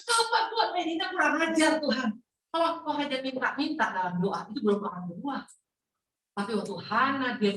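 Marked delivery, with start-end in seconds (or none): 0.0-2.1 high-pitched imitation of a weeping prayer; tearful pleading. Hana begging God for a child, mock-tearful pleading. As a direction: plead as if crying, pitched well up. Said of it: "Tapi nangis".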